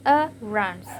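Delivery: "a runs" with the stress on "runs"; weak "a", clear stress on "runs"; stress on last syllable. Shown as a demonstration. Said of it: "the stress is clear".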